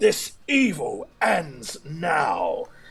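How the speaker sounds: slow, swooping, furious bellowing shout. Galaric cries out at the evil around him as he enters a holy fury, angry bellow. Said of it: "as he bellows out".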